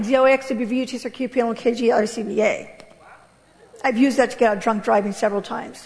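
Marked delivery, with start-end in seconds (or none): 0.0-2.7 fast backwards alphabet. Shown as a demonstration. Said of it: "as fast as I can".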